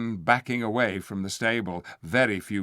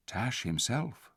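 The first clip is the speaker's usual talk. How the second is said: whispered; 6 dB quieter, slower than usual. Acted. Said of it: "whispered Tyrion".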